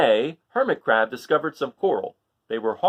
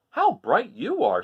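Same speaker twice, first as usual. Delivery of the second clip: higher, louder, slow delighted voice; admiring crab; 5 semitones higher, 5 dB louder, slower than usual. Acted. Hermit Crab delighted by the lanternfish, slow and louder. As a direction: marvel at the glow. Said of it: "said Hermit Crab".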